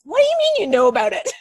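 high, loud, laughing through the question; incredulous laugh on the words; laughing disbelief. Retold or imitated. To her husband about the secret, laughing loud disbelief.

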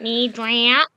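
mock Australian. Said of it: "That's the Australian".

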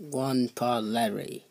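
muffled as if through a wall. Acted. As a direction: speak from behind a closed door. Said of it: "Your voice is, like, super muffled".

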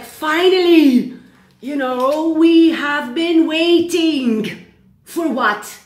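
rally them with real excitement; excited. Real, not acted. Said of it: "I'm doing a little bit cuckoo now".

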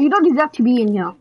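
unvoiced aside whisper. Real, not acted. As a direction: hiss the jab under breath.

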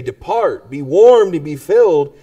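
mock dismissive send-off. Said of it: "and you say".

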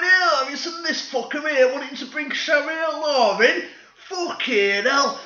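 mock outraged shout from the crowd; angry mob shout. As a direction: bellow it like an indignant local. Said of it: "They're absolutely fucking fuming".

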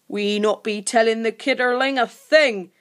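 mildly hissed creature voice; firm order with a hint of a hiss. A narrator's reading. Grunt to the other creakers, hissing firmly. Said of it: "heard Grunt hiss firmly to the others".

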